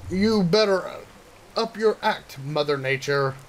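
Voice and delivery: put-on high, cocky girl character; boastful girl voice. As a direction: brag it out like a tough girl. Narumi character voice.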